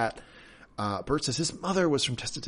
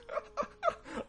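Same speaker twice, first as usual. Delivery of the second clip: breathy laugh; 10 dB quieter than usual. Real, not acted. Laughing at artichoke threat.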